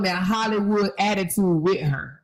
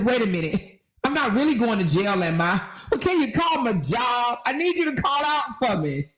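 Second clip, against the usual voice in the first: higher pleading mimicry, breaking into a laugh; mock panicked woman; 4 semitones higher than usual. Host mimicking arrested woman, mock pleading. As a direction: beg like she just realised. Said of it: "she says".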